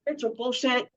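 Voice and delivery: high, loud mocking voice; mocking daughter. Mother mimics daughter mocking her beliefs, high and loud. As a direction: sneer it like a scornful teen. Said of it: "She said".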